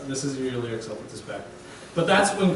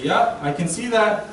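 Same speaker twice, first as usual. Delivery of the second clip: casual God voice; 2 semitones higher than usual. Retold or imitated. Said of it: "God will say".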